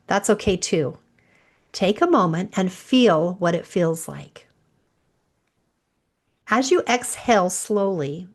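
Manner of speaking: calm guide through the breathing; guided meditation. Acted. Leads a breathing visualization.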